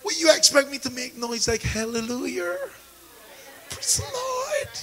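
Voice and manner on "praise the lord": soft, high breathy praise; whispered praise. Shown as a demonstration. Preacher mocking timid praise, a whisper. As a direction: show how small a whispered praise is. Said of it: "That's a whisper".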